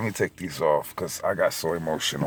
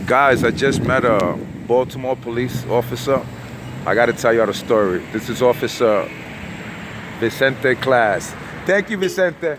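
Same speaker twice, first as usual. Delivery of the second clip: excited; 4 semitones higher, 5 dB louder than usual. Real, not acted. Excited meeting officer on camera.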